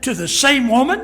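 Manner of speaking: high, loud same woman; amazed disbelief. Retold or imitated. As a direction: gasp it in disbelief. Executive amazed at one marriage.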